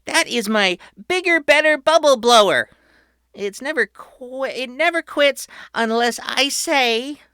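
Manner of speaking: put-on high, loud tour-guide kid; proud boy host. A narrator's reading. Patrick welcoming his family underground, high and proud. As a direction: announce it like a grand showman. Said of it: "Patrick explained".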